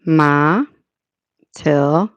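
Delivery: "Ma", "til" as separate syllables. Shown as a demonstration. Streamer working out a name's syllables, sounded out. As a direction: sound out "Ma", "til" with a pause between. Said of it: "It's on the second syllable".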